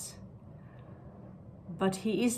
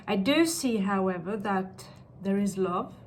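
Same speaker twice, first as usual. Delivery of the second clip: psychic; 3 dB louder than usual. Acted. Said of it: "so I sound like a psychic when I talk like that".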